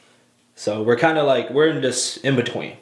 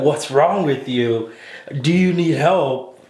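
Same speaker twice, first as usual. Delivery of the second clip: weird character; slower than usual. Retold or imitated. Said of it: "he's so weird".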